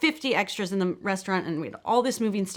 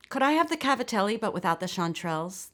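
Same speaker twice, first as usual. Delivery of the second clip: ordering diner; 4 semitones higher than usual. Acted. Reads a diner ordering in script.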